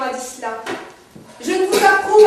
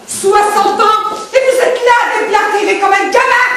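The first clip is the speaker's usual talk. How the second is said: raised, exasperated reproach; indignant scolding; 3 semitones higher than usual. Acted. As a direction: tell off an old man like a child. Scolding an old man in quarrel. (réprimande indignée)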